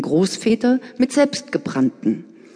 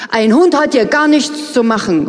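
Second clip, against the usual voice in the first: stung outcry; 5 semitones higher, 5 dB louder than usual. Acted. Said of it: "rufe ich empfindlich".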